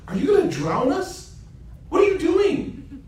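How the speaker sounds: a frantic shout, stretched out slowly at the end; alarmed shout. Acted. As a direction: yell at him to stop sinking the ship. Musa alarmed as the ship leaks.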